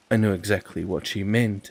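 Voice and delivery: ordinary delivery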